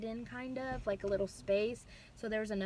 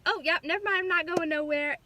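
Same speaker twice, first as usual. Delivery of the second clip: surprised nurse; 6 semitones higher, 7 dB louder than usual. Retold or imitated. Nurse realizes baby coming.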